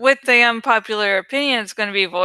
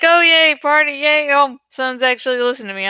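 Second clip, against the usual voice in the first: high, loud squeal of fake delight that rushes at the end; mock excited cheer; 4 semitones higher, 3 dB louder, faster than usual. Imitating a thrilled commenter at the party, mock excited squeal. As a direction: gush like a giddy, lonely host. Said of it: "It's like".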